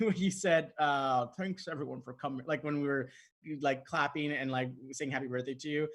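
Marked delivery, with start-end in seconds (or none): 1.4-2.4 lightly voiced Scottish film star, softer; a quiet, understated impression of an old star; Sean Connery. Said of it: "you literally did Sean Connery's voice".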